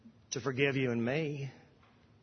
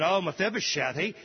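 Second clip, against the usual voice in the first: scheming servant; 4 semitones higher than usual. Acted. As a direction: play the lying servant telling tales. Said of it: "Ziba ... said".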